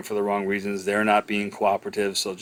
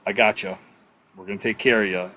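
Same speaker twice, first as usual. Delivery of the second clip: calm reassurance. Shown as a demonstration. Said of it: "So the best thing you can do is just go".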